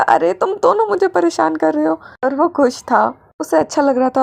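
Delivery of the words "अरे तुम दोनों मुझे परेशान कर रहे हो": laughing complaint. Acted. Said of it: "हंस रहा था".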